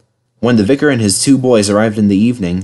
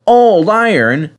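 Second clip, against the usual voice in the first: high, drawn-out, offended echo; scandalised disbelief; snorted indignation; 11 semitones higher, 4 dB louder, slower than usual. A narrator's reading. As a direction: throw it back in outrage. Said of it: "they snorted".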